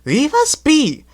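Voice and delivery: very high, slow dismissive coach voice; snooty coach. A narrator's reading. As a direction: wave the engine off lazily. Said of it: "said the other coach".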